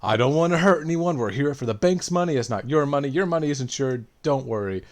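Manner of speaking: robber's speech. Retold or imitated. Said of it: "that gave that great speech of".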